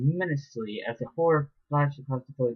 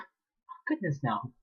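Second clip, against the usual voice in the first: grinning denial; 3 semitones higher, 4 dB quieter, slower than usual. Acted. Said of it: "she replied, grinning".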